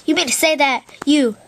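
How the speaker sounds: a hint of an odd character asking in disbelief; Cauliflower voice. Original character Cauliflower questioning someone, lightly voiced disbelief. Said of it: "I can do my original character, Cauliflower".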